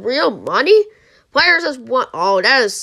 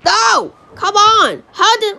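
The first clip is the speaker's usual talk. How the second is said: high-pitched, exasperated cry; real burst of gamer frustration; mad protest; 10 semitones higher, 4 dB louder, slower than usual. Real, not acted. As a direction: wail at the game in frustration. Player loses, just said getting mad.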